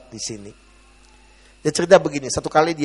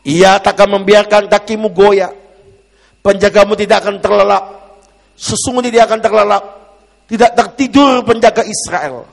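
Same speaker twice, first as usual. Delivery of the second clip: forceful scripture reading; 6 semitones higher, 8 dB louder than usual. Real, not acted. Preacher reading Psalm 121 to the congregation, forceful proclamation. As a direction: proclaim the psalm to the hall, loud and high.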